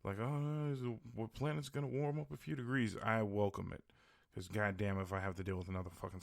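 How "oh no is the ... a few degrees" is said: higher-pitched mock worry; mock complaining. Host mimics people bitching about global warming, mock complaining. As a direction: imitate people fretting, pitched up. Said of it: "everybody's bitching about fucking global warming".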